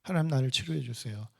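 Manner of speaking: gently imitated entreaty to God; earnest prayer. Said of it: "간절하게 기도합니다".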